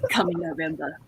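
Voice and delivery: trailer guy voice. Acted. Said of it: "what nineties movie trailers sound like".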